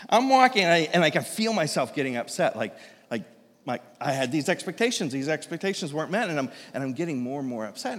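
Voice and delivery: usual speaking voice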